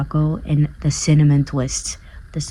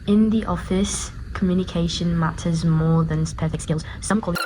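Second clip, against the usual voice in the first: British accent; 5 dB quieter than usual. Shown as a demonstration. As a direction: attempt a British accent for an accent test. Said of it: "when I try to do a British accent".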